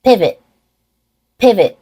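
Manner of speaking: "pivot" with an unreleased final T; stop T. Shown as a demonstration. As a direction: stop the air at the end of "pivot", no release. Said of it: "say it with a stop T".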